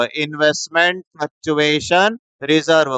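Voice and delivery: slow, each word laid out; teacher naming the full term. Shown as a demonstration. Teacher giving students the full name slowly.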